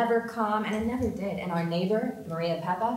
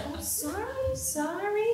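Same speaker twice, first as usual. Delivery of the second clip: mock apology; 11 semitones higher, slower than usual.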